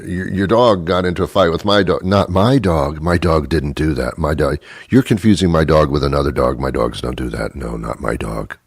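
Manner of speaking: insistent denial, sinking low; mildly belligerent dog-owner denial; defensive dog owner. Acted. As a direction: deny it over and over, dropping to a low finish. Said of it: "I would defend my dog".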